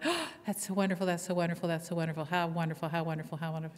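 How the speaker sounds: mild, fading gush of praise; gushing congregation. Retold or imitated. Baptist congregation welcoming the pastor's fiancée, mild gushing. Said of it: "they all went".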